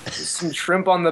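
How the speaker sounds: put-on slow, half-hearted Australian accent; mock Australian accent. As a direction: start a bad Australian impression, slowly. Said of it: "that's Australian".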